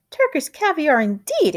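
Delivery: wife scoffing at the note; indignant exclamation. Acted. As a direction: huff at the idea. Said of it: "exclaimed Missus Prim".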